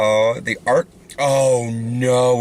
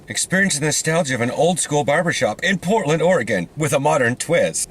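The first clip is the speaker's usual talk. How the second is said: slightly raised website-slogan voice; promotional read; 3 semitones higher than usual. Acted. Reading a barbershop's website to a friend, promotional read. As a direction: read it like ad copy.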